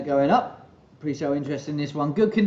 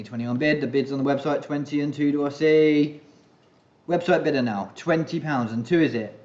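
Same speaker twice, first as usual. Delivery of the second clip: auctioneer. Real, not acted. Auction bid calling.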